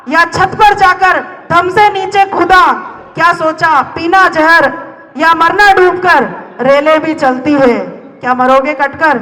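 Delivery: dramatic spoken-word verse, pleading; poem recitation. Acted. Poet talking to someone about to die, dramatic recitation. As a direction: recite it as an urgent, rhythmic appeal.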